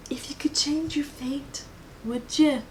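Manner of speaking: a whispered film line; whispered movie quote. Retold or imitated. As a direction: hush it like a secret quote. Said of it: "what's the quote from Brave".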